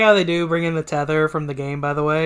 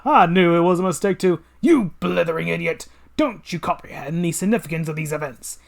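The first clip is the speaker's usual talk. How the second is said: villain voice; 3 semitones higher, 5 dB louder than usual. Acted. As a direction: savour every word like a mad scientist.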